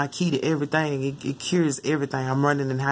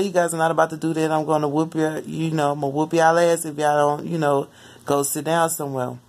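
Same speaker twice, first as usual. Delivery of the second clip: nicest way. Retold or imitated. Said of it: "he said it to them in the nicest way".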